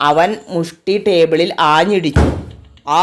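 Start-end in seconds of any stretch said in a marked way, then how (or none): 3.0-3.0 roar. A narrator's reading. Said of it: "എന്ന് അവൻ അലറി വിളിച്ചു".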